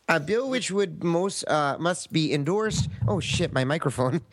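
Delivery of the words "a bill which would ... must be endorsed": put-on slow, drawn-out Minnesota accent. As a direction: lean into the Minnesota sound. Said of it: "speak in a Minnesota accent if you can".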